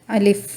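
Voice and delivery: अलिफ kept short and quick; short alif. Shown as a demonstration. Teacher repeats the short अलिफ for the students. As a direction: say अलिफ briefly, no stretch. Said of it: "सिर्फ इसको ऐसे ही पढ़ना है".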